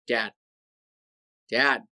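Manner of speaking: repeated call with long waits, rising at the end; acted-out calling, building in pitch. Calling to his stunned dad.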